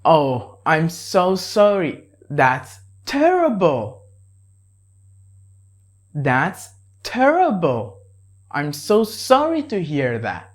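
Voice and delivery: mild sad sympathy; sympathetic. Shown as a demonstration. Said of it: "express your sympathy".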